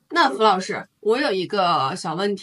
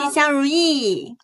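cheerful new year wishes; 5 semitones higher, slower than usual. Real, not acted. Group new year greeting.

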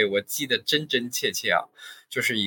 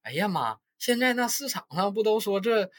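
staged doubt; 9 semitones higher than usual. Retold or imitated. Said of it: "然后我这边就说".

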